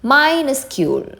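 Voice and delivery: drawn-out "Minuscule", starting high; pronunciation demo. Shown as a demonstration. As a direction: model "Minuscule" slowly for learners. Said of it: "pronunciation നോക്കാം".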